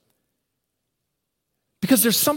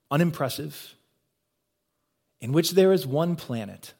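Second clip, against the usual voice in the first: documentary narrator. Retold or imitated. Documentary narrator telling viewers of our one planet, measured imitation. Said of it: "just the right accent and tone".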